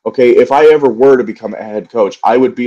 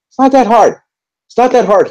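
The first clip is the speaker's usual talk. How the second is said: high, pitched-up disbelief; squeaky exasperated outburst; 13 semitones higher than usual. Real, not acted. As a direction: throw the words up high in frustration. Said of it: "I think I'm just angry right now".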